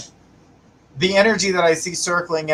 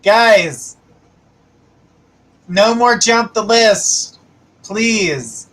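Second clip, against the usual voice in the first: higher, louder, slow and firm; stern scolding; 6 semitones higher, 4 dB louder, much slower than usual. Real, not acted. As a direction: scold the chat, spacing every word. Scolding chat for list jumping.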